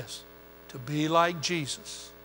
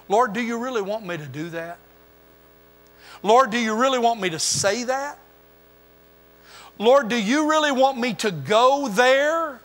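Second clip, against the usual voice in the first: a hint of anxious praying; questioning prayer; 3 semitones higher than usual. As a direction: imitate a believer asking God, growing urgent. Acting out a believer's questions.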